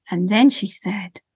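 slow, rhythmic storytelling voice; lilting children's storyteller; story narration. A narrator's reading. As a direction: tell it gently to a listening group. Tells a sensory story to audience.

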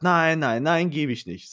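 hammed-up bratty no; mock stubborn little boy; defiant kid. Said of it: "Und der sagt".

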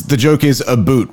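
"a boot" with a long oo, like about; the Canadian "a boot". Shown as a demonstration.

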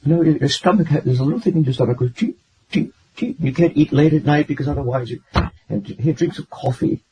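put-on high-pitched old-country nonna voice; grandmother impression. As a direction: play the grandmother explaining folk remedies. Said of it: "my grandmother would, would speak like this".

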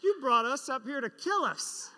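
put-on a frightened kid accusing his dad on the cliff; panicked child. Child on the mountain, panicked.

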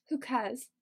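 improvised British "cares", drawn toward "cahs"; attempted British accent. Fitz answers Sophie, attempted British accent. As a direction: put on an amateur British accent. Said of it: "I never claim to have a good British accent".

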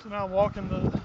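breathing hard after a long run. Real, not acted. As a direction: talk while winded from running. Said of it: "little out of breath".

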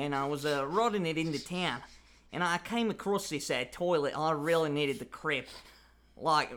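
broad put-on Australian accent. Shown as a demonstration. Telling how he clogged the toilet, Australian accent. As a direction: spin a yarn in broad Australian. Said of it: "let's do an Australian accent".

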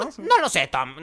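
Graham. Retold or imitated. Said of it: "con su voz".

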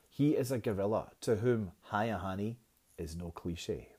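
reading the stanza aloud to the class; a poem read aloud for the students, with pauses. Shown as a demonstration. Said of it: "I'll read you stanza one".

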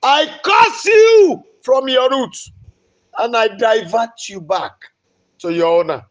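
very high, loud, slow stretched shout; laying a curse. Real, not acted. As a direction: scream the curse with full force. Preacher cursing a disease.

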